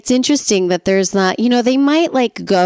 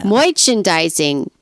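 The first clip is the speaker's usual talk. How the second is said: drawled word; slower than usual. Pretend. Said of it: "I just had to do that".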